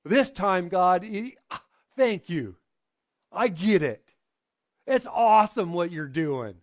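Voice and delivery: mock-joyful thanks to God; grateful joy. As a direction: voice Leah's loud gratitude. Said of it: "she goes".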